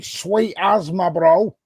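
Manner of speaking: slow, lightly voiced swagger in a Manchester accent; mock dramatic man. Mocking the dramatic man's talk to his friends, slow and lightly voiced. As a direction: drag it out like a lad acting hard. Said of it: "no one walks around going".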